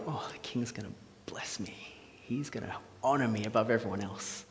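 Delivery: hushed, self-satisfied gloating; breathy, savouring mock smugness; smug. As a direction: act out a smug man privately relishing his reward. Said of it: "he's really smug, going".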